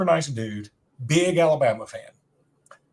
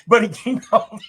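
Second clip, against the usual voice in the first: playful interjection; 8 semitones higher, 6 dB louder than usual. Real, not acted. Interrupting co-host with catchphrase joke.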